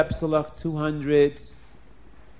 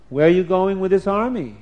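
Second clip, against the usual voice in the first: challenging demand; 3 semitones higher, 6 dB louder than usual. Acted. Generals challenge Esav.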